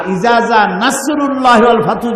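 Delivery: ইজা with z for dh, light s in নাসরুল্লাহি; wrong-letter demo of ইজা জা নাসরুল্লাহি; mispronounced verse. Shown as a demonstration. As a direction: say ইজা জা with a Bengali z, quickly through. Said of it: "তার অর্থ দাঁড়াবে".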